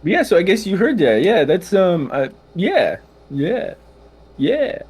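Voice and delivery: gnome voice. Acted. Gnome voice continues.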